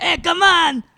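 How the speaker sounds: booming, high put-on French accent, belted out. Told that your Napoleon sounded Mexican, prove it is French with a French Napoleon voice. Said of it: "That sounds French".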